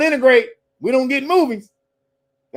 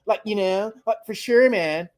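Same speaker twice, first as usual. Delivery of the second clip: mock the Valley Girl movie talk; Valley girl impression; 2 semitones higher than usual. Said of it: "That's when they talk, like".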